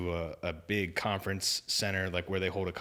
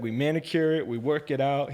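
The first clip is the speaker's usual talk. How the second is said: higher, louder, hammed-up preacher voice; imitating the preacher; 6 semitones higher, 6 dB louder than usual. Retelling the evangelist's stadium sermon, in a higher, louder mock preacher voice. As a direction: play the stadium preacher, big and showy.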